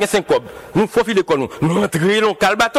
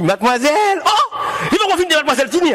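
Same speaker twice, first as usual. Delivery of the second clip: calling out; 5 semitones higher, faster than usual. Retold or imitated. Young man calls Titi to dance.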